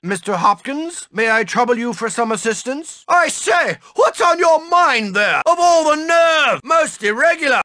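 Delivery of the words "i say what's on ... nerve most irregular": indignant shout. Acted. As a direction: bellow in scandalized indignation. Indignant teacher scolding student.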